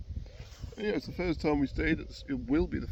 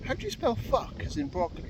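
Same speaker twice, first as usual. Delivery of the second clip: sarcastic; 12 semitones higher, 3 dB louder than usual. Retold or imitated. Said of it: "And he goes".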